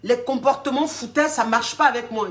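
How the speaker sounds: a client protesting her toughness; indignant client. Retold or imitated. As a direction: client insisting she's not joking. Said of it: "Elle dit".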